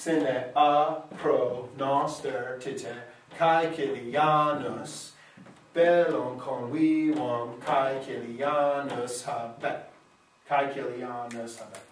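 slow, measured recitation of the Latin line; reciting Latin verse. Shown as a demonstration. Teacher reciting the Latin epigram to students, slow verse reading. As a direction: read it out slowly, feeling the meter. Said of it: "So let me see".

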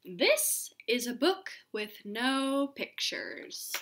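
lively storybook reading voice; reading to children. Acted. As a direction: read it aloud to a class. Reads picture book to class.

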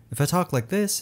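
bad voice demo. Shown as a demonstration. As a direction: talk up high and light, without chest. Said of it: "it doesn't really sound that good".

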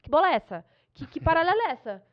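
half-shouted, outraged heckle; imitated heckling yell. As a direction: act out yelling at a player. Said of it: "eu já ia começar a gritar".

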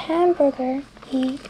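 "hamburger" said slowly the English way; English word. Shown as a demonstration. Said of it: "es casi igual en español".

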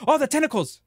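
high startled cry at the tentacles; startled yelp. Real, not acted. Streamer startled by tentacles, high yelp. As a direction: jump at the sight, voice flying up.

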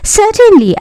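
high-pitched mouse queen; squeaky little mouse. A narrator's reading. Mouse queen answers Dorothy, high and squeaky. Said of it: "in her squeaky little voice".

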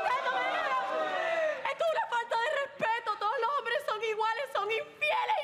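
high, fast outraged shout; indignant yell. Acted. Girlfriend scolding boyfriend and his friend, fast indignant yell. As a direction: scold them both, shrill and offended. Jealous girlfriend yells at him.

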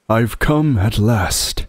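put-on slow, grand old man; solemn and glad arrival; Father Christmas.

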